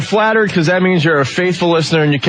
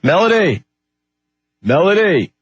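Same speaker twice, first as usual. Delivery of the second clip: calling out; 3 semitones higher than usual. Real, not acted. Host calling Melody on the phone line, calling out. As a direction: call out for someone who isn't answering.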